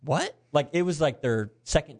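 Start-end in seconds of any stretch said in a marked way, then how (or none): 0.0-0.3 higher, questioning mock "what"; confused mom. Confused mom answers her daughter's news, puzzled. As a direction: imitate a puzzled mother. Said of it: "Her mom's confused".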